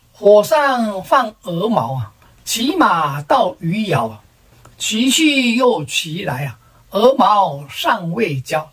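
slow, measured reciting of a poem; verse recitation. Acted. Second son-in-law offers his verse to the family, slow recitation. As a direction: draw out each line of verse.

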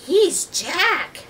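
very high, loud, stretched greeting; yelling hello. A narrator's reading. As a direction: call out slowly as Annie to a far-off creature. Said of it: "She yelled at the octopus".

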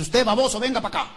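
mother-in-law ordering. Retold or imitated. Mother-in-law summoning son-in-law, mildly bossy order. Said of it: "siempre dice".

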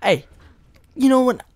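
hammed-up hype intro with loud yos; put-on hype talk. Vlogger greeting viewers to get crazy, put-on hype. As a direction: open loud and exaggerated, playing it crazy. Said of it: "why I'm talking like this".

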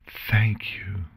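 whispered thanks. Acted. Celestia hugs Chrysalis, whispering thanks. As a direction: breathe the thanks, no voice.

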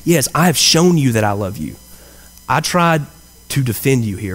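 the right take, humble and heartfelt; sincere. Shown as a demonstration. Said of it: "I don't think that's the kind of tone that he used here".

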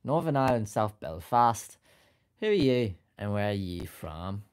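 second go at a Northern Irish accent. Shown as a demonstration. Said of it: "butchered your own accent".

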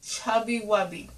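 talking around a marshmallow; mouth full. Real, not acted. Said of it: "you put one marshmallow in your mouth".

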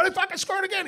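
gloating shout at roommate; gleeful yell. Retold or imitated. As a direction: crow it through the wall. Yelling through a wall.

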